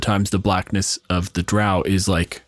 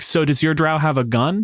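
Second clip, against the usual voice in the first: mock racist question; 6 semitones higher than usual. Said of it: "half an inch left of going".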